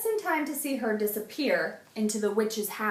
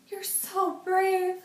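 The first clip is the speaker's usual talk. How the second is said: admiring; 10 semitones higher, slower than usual. A narrator's reading. Sue Ellen admiring.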